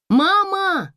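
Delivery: high loud cry of Mama; shouting Mama. A narrator's reading. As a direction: call out to mother in alarm. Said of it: "кричала Анюта". (громкий крик дочери)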